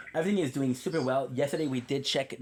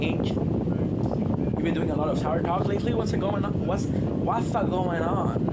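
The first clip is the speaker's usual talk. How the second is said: sing-song mock Italian accent, rising higher; 4 semitones higher, 4 dB louder than usual. Streamer voicing a viewer's question, mock Italian accent. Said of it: "you're taking the Italian accent with me".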